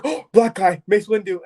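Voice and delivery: high, loud mock-excited yell; hammed-up fan outburst; retold excited scream. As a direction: re-enact screaming at a surprise cameo. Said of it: "and I screamed".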